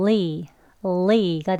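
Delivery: 리 drawn out slowly, tongue released into a smiling 이. Shown as a demonstration. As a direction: pull the lip corners back and say 리 slowly. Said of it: "그러면". (천천히 리)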